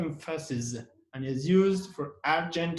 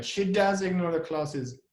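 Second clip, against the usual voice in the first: does given firm weight; emphatic does, falling to the end; stress on does. Shown as a demonstration.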